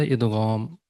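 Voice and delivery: ادغام slowly, with Arabic ghain and long aa; slow, careful Arabic ادغام, gh not g; Arabic pronunciation. Shown as a demonstration. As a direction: draw out ادغام as id-ghaam. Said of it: "اس کا جو Arabic میں pronunciation ہے".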